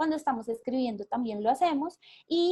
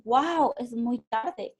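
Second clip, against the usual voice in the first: mild surprise; much slower than usual. Retold or imitated. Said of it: "abriendo sus ojos".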